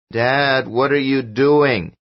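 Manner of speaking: put-on a small boy puzzled by his father; lightly voiced child. A narrator's reading. Son asking his father, lightly voiced child.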